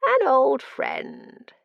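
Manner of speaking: high, slow, loud gleeful cry; exclaimed. Acted. Madman exclaiming at an old friend, loud and drawn out. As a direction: savour each word like a madman. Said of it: "he exclaimed".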